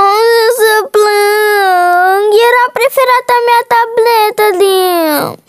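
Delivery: slow, tearful words; crying. Acted. Girl crying to her sister about her favourite tablet, tearful. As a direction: speak through the tears.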